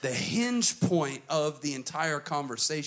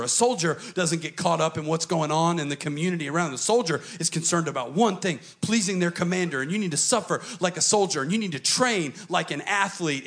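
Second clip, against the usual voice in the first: pep rally speech; 3 semitones higher, 3 dB louder than usual. Retold or imitated. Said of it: "pep rally speech".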